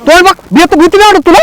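very high, urgent warning; alarmed urging. Acted. Villager warning others to flee the ghost, high alarm. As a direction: urge them away in high-pitched alarm.

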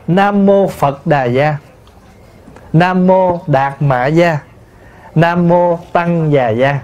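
slow chant-like "Phật Đà Gia", each syllable distinct; Vietnamese transliteration. Shown as a demonstration. Monk showing how it is transliterated, slow Vietnamese "Phật Đà Gia". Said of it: "mà mình phiên âm lại là".

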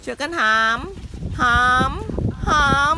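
loud heave-ho calls; effort grunt. Acted. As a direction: push every word like lifting. Urging animals to haul.

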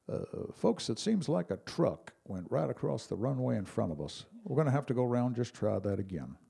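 lightly voiced calm pilot, unbothered; a hint of a pilot reading out a go-around; eerily calm pilot. Comic imitating the pilot after a near miss, mildly eerie calm. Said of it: "in that eerily calm pilot's voice".

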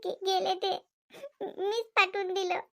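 soft, laughing through the words; embarrassed little laugh; nervous laugh. Acted. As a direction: laugh it off awkwardly. Daughter-in-law laughing nervously.

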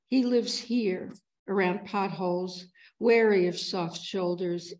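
deliberate verse cadence, lingering on phrase ends; poem reading. Acted. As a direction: read the poem line by line, unhurried, with pauses. Reads own poem aloud.

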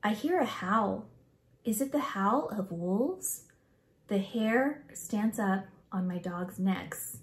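put-on expressive, measured read-aloud for children; story read-aloud. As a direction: read the picture book aloud with feeling.

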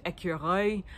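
écureuil said with a rolled French R. Shown as a demonstration. Vlogger showing a fun French word. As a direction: roll the R in écureuil. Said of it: "flex your French R muscle".

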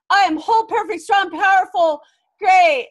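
loud, high, overblown self-affirmations chanted; hammed-up affirmation. Mocking cheesy self-help affirmations, chanted loud and high. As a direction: pump yourself up like a cheesy self-help mantra. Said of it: "that personal development thing where we go".

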